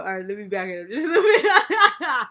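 talking through leftover laughter; laughing. Real, not acted. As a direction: still chuckling through words. Recovering from laughing fit.

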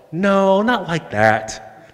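put-on child's protest. Child voiced in a story.

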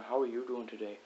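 hammed-up attempt at an Irish accent; bad Irish accent. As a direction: put on a poor Irish brogue. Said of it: "Can't do an Irish accent very well".

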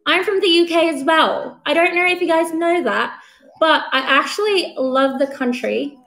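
lightly put-on British accent. Streamer showing viewers she too can talk British, mock British accent. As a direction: have a playful go at a British accent. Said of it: "mag-British accent kaming tatlo".

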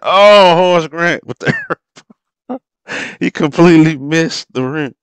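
sudden high loud cry breaking into a laugh; shocked laughing yell. Real, not acted. Fan watching Grant miss the rim, shocked laughing yell. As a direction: yelp at the miss, then laugh.

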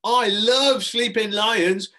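high, loud, slow gush; drawn-out childish delight; excited cry. Acted. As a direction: squeal it like a thrilled child. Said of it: "cried Katie Broad".

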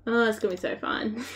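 mock enthusiasm about the work ahead; real dry sarcasm; sarcastic. Real, not acted. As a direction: say it sarcastically, meaning the opposite. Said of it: "I'm being sarcastic".

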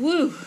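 loud voiced "woo" exhale; deep breath out. Girl gathers herself to comfort mother, deep exhale. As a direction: blow out a steadying breath. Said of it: "she let out a deep breath".

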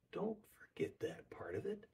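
urgent whispered reminder. Real, not acted. Preacher whispering a reminder to the congregation. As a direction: lean in and whisper it.

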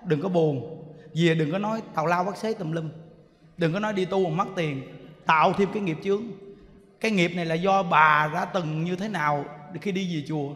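low, soft stern warning; stern admonishing. Retold or imitated. Monk warns woman not to gossip about lost money, retold stern admonishing. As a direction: imitate a grave monk laying down the rule. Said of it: "có khi mà nó nghiêm".

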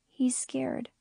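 hushed whisper, gentle and soft. Acted. Little girl whispering to the man about Cooper, gentle whisper. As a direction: breathe it out softly like a secret. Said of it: "her voice soft and gentle".

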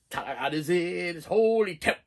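a touch of the spooky preacher; hint of creepy old man. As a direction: murmur it like a half-heard hymn. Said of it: "He's like".

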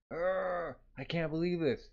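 acted exasperation. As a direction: grumble it like a jealous cartoon captain. Jealous character vents alone.

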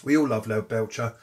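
talking while chewing peanuts; words round a mouthful of peanuts; mouth full. Real, not acted. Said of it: "Sorry, if I'm chewing in the background".

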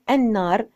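النار as "an-naar", silent lam; assimilated article. Shown as a demonstration. Teacher saying it as children hear it, النار as an-naar. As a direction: say النار with doubled n and no l. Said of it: "بنكتب زي ما بنلفظ".

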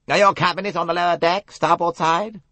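a crisp police colonel; stern inspector. A narrator's reading. Colonel quizzing the young passenger, businesslike. Race voiced by narrator.

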